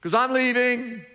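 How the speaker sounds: calm panicked friends cheerfully; a hint of a casual Jesus voice; paraphrased Jesus. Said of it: "But he said".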